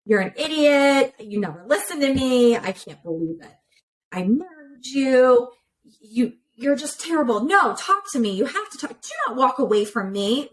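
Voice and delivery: imitating a spouse lashing out in a fight; mock angry partner. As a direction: act out a fighting partner, half in earnest. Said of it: "we start being a fighter".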